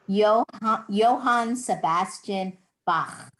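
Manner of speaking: Bach ending in a rasping German ch. Shown as a demonstration. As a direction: end Bach with a throaty ch. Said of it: "like the German hard C H sound".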